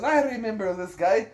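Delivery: high, excited mock exclamation; retold delighted recognition. Interpreter sees an old friend's face, imitated excitement.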